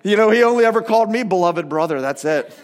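teasing mock boast, dropping away at the end; playful one-upmanship; ribbing. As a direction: rib a friend by playing the favorite. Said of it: "like, ribbing him".

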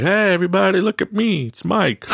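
high, bright attention-seeking call to the room; party guy hamming up his own entrance; showing off. Retold or imitated. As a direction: announce yourself to the whole party. Showing off at parties.

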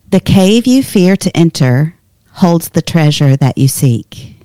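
usual speaking voice

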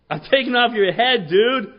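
loud cocky threat; shouted threat. Retold or imitated. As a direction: yell it at the giant. Paraphrased threat, still shouting.

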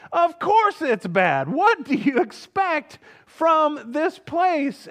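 put-on young manager venting silently at a yelling customer, exasperated; exasperated inner rant. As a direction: build from fed-up to disbelief, slowing at the end.

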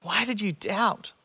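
"Why did you doubt?" asked gently with a soft rising end; tender "Why did you doubt?"; compassionate. Acted. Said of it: "I hear compassion".

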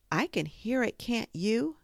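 high, nervous little voice; anxious Piglet. A narrator's reading. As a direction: ask as if afraid of the answer. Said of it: "said Piglet anxiously".

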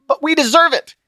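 high, pleading disbelief; Christian, incredulous. Acted. Christian arguing while being strangled. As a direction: argue from a choke-hold.

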